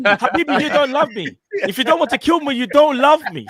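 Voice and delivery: mock Arab accent. Mocking lovesick Arab voice.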